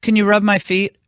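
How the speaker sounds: a hint of a whining little boy; whiny kid plea. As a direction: mimic a son begging for a foot rub. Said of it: "this is what Emperor Nico does".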